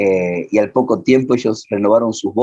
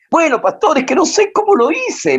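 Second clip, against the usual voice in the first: retold crying. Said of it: "ahí empezó a llorar".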